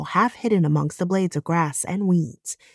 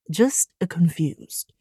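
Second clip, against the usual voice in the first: breathy unvoiced whisper; slower than usual. Bobby gently reassuring Maddie, whispered. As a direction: drop to a hush to soften it.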